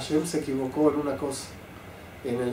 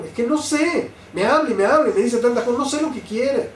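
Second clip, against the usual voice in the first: esposa agobiada; 7 semitones higher than usual. Retold or imitated. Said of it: "situaciones que se ven en las parejas".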